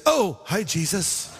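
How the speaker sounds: awkward, fading "Oh, hi, Jesus"; sheepish greeting. Retold or imitated. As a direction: caught red-handed, trail off sheepishly. Peter caught meeting Jesus' eyes.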